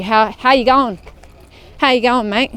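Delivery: fast, clipped Australian "How you going, mate?"; Australian accent. Shown as a demonstration. A vlogger shows viewers how an Australian greets a mate, Australian accent. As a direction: run the words together like an Australian. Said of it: "As an Aussie, it'd be".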